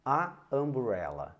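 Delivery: "a umbrella" repeated with plain a, marked as strange; wrong article. Shown as a demonstration. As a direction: stress how "a umbrella" sounds off. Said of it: "Soa muito estranho".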